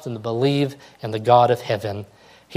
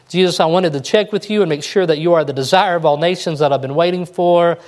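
earnest plea; 5 semitones higher, 4 dB louder than usual. Retold or imitated. Preacher voices imprisoned John's question.

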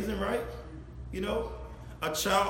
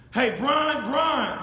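a parent calling a name twice, raised voice; calling twice, louder; 4 semitones higher, 5 dB louder, much slower than usual. Shown as a demonstration. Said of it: "When they say it twice, it's something behind it".

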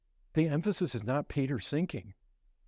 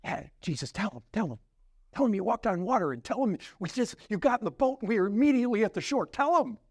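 eager disciple; 4 semitones higher, faster than usual. Acted. Disciple urging Jesus to tell the crowd about the miracle, excitedly. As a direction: egg him on, quickening as the pitch climbs. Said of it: "you're just thinking".

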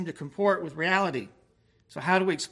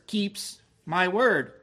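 "keeps my word" said slowly, each word weighted; slow emphasis; 3 dB louder, much slower than usual. Shown as a demonstration. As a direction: lean on "keeps my word", drawn out. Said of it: "The first thing I want you to notice are the words".

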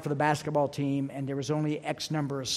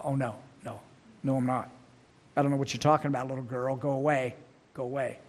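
lightly acted low, muted brush-off; mock-nervous denial, kept low; dismissive denial; 3 semitones lower, faster than usual. Buff fisherman waving off a little servant girl, dismissive denial.

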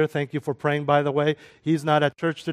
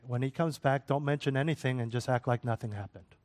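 hushed, voiced aside to the brothers; retold whisper; 6 dB quieter than usual. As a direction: quietly pass on a discreet instruction, imitating a whisper. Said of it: "I'll whisper to his brothers".

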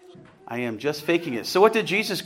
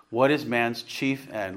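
catechism question; 3 semitones lower, 3 dB quieter, slower than usual. Shown as a demonstration. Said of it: "Let me hear you".

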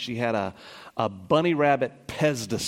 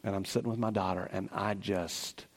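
choked up; 3 semitones lower, 5 dB quieter than usual. Real, not acted. Emotional recollection, voice drops.

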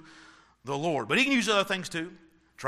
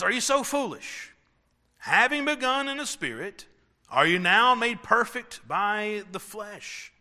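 preaching Paul's words; 4 semitones higher than usual. Acted. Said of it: "Paul says".

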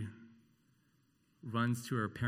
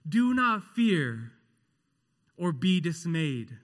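higher, louder, slow proclaiming; fervent scripture reading; 8 semitones higher, 6 dB louder, slower than usual. Acted. Preacher declaring the wedding text to the congregation, loud and slow. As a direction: proclaim the verse with full force.

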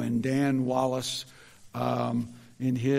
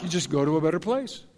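quick, lightly mocking they went to a better place; mocking platitude; 2 semitones higher, 4 dB louder, faster than usual. Preacher mimicking secular mourners, quick and mocking. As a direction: toss the cliché off glibly. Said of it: "No matter what you were like".

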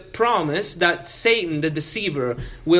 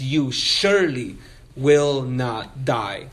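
slow, lower "surely will not die", each word set apart; intense denial; 4 semitones lower, slower than usual. Retold or imitated. Preacher quoting Satan denying God's promise, slow emphatic denial. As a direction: weigh SURELY and NOT heavily, taking time. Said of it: "the same kind of intensity to deny".

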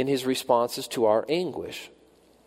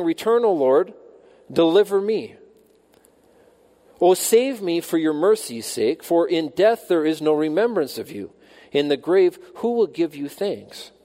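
pleading cry to God; 5 semitones higher, 4 dB louder than usual. Acted. Preacher voicing David's plea.

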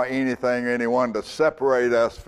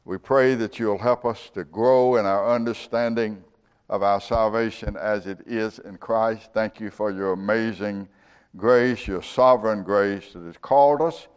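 prayer; 2 semitones lower than usual. Real, not acted. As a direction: address God reverently on a steady, level tone. Leads a closing prayer.

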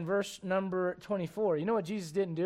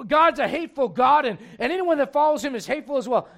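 mock accusation; 3 semitones higher, 5 dB louder than usual. Mocking the world's accusation.

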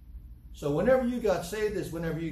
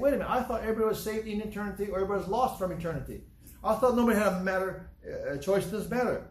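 mock astonishment; 5 semitones higher, faster than usual. Preacher acts a startled listener.

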